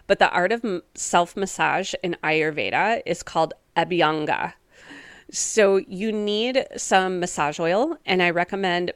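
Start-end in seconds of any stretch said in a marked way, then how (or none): 3.8-4.5 "Abhyanga" said slowly and precisely; slow, precise pronunciation. Shown as a demonstration. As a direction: sound out "Abhyanga" with care, syllable by syllable. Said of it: "as slowly and precisely as I can".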